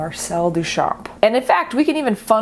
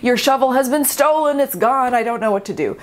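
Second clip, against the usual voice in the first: higher-pitched, flustered apology; mock panic; 5 semitones higher than usual. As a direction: play a hammed-up panicked gallerist. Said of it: "in a complete panic".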